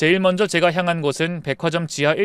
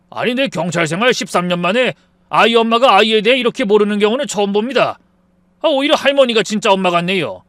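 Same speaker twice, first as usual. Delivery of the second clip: tut-tutting; 5 semitones higher, 6 dB louder than usual. Acted. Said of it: "혀를 끌끌 차더니".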